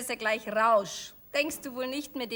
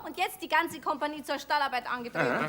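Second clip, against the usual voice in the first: mock drill sergeant; 3 semitones higher than usual. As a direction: play sergeant shouting orders. Barking mock drill commands.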